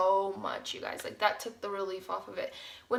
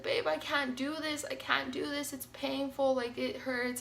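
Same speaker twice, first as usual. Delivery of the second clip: higher, softer mock whimper; tearful pleading, retold; 3 semitones higher, 4 dB quieter than usual. Laboring mom pleading with her partner, lightly acted distress. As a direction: imitate a mild tearful plea, no real crying. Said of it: "I was just crying".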